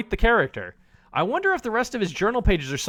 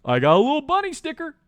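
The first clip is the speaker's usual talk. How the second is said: cutesy voice; 6 semitones higher, 3 dB louder than usual. Acted. Cutesy sleepy babble.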